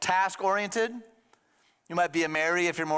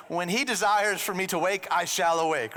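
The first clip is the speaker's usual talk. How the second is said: slightly raised, mock-solemn old-fashioned English; mock Lord's English; 3 semitones higher than usual. Pretend devout believer answering the preacher, mock Lord's English. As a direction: put on a touch of pious formality. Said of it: "you speak in the Lord's English".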